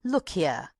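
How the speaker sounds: urgent, insistent call; agitated. A narrator's reading. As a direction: press them to listen. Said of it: "She suddenly calmed herself".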